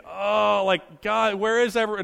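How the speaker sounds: mock crying. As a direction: mildly wail like an abandoned child, only acting it. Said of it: "like, crying and".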